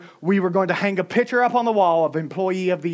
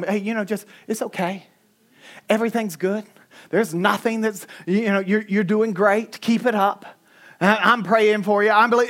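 reassuring. Retold or imitated. Comforting a new cashier.

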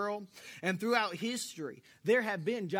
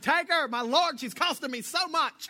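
weary father; 7 semitones higher, 6 dB louder than usual. Retold or imitated. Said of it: "And he's like".

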